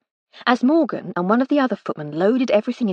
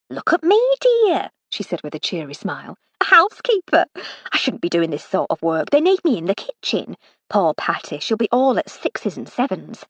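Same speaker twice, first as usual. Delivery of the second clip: lightly voiced cheery West Country cook; mock grumble with a smile; Missus Ruddle, cheery. The cook showing off her housekeeper's role, cheery grumbling.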